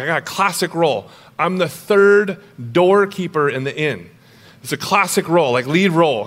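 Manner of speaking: put-on light British accent, a proud little boy; British kid accent. British boy tells mom his play role, lightly done British accent. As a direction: brag in a British accent about a tiny part. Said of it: "And there's this British accent".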